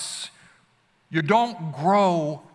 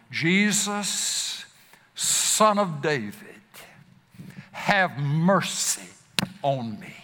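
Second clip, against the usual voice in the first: pleading cry; slower than usual. Retold or imitated. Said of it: "to cry out that same cry".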